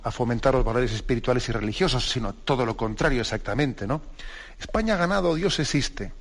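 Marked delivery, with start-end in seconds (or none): 4.6-6.1 high-pitched retold victory call, no real shout; mock commentator's cry. Preacher quotes the TV commentator's victory line, mock joyful cry. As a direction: echo the elated commentator in a raised pitch. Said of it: "Gritó el, el locutor".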